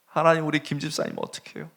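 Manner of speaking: the prayer swells into open weeping; crying prayer. Retold or imitated. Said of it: "막 우는 거예요".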